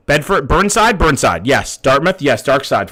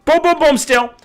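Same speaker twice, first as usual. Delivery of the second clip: excited boom; 4 dB louder than usual. Real, not acted. Celebrating a close guess.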